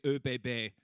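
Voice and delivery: "O B B" said the German way, oo-bay-bay; German pronunciation. Shown as a demonstration. Comedian naming the railway, "O B B" pronounced in German. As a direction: say "O B B" with German letter names. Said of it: "Did I say it properly?".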